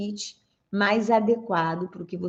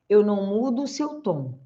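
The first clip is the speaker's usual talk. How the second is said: ordinary delivery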